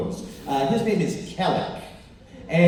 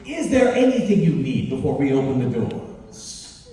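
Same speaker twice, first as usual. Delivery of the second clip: servile host; 3 dB louder than usual. Acted. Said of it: "Baloth sort of slides over and says".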